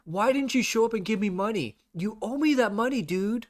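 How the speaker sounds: a lightly voiced greedy streamer; mock demanding streamer. Voicing the streamer demanding money.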